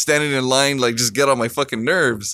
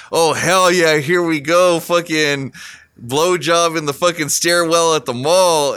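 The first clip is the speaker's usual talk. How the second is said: mildly excited, lifted retelling of his own reaction; retold eagerness; 3 semitones higher than usual. Telling friends what he expected from girlfriend's surprise, mildly excited. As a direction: recount getting your hopes up.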